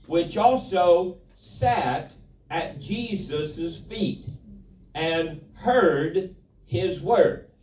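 "which also sat" slowed, leaning hard on "also"; stress on also. Shown as a demonstration. Preacher to congregation, pressing the word also. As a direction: draw out "also" and "word" to make the point. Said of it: "watch this now".

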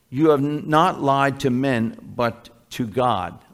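earnest, measured Bible reading; scripture reading. Acted. Pastor reading Acts to congregation, earnest scripture reading. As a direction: read it aloud like the Word itself.

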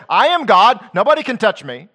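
a haughty declaration, loud and high; proud boast. Retold or imitated. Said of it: "did he say".

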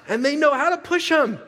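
bursting into a laugh at the punchline; laughing loudly. Real, not acted. Joke about kids pushing buttons.

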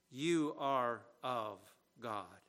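slow, reassuring "You are of God". Retold or imitated. John reassuring unsettled believers, slow and reassuring. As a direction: say it slowly to steady anxious hearts. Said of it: "He wants to assure their hearts".

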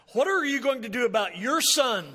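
fed up, pushing it back; exasperated. Retold or imitated. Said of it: "a note of exasperation".

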